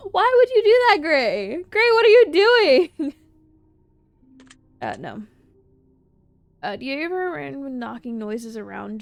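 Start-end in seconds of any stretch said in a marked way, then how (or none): 0.1-3.1 high, loud exasperated calling out; real exasperated shout, much higher; scolding the bird. Real, not acted. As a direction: call out at a naughty pet on camera. Scolding pet on security camera.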